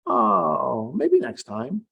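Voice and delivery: high, lightly voiced mock letdown; mock disappointment. Author imitating herself missing from the acknowledgements, high and light. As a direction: brush it off in a high voice. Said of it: "it's like".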